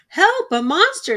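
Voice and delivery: high, loud fake terror cry; mock fright. A narrator's reading. Mother pretending to fear her son's monster costume, mock-scared cry. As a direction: ham up being scared. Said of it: "pretending to be frightened".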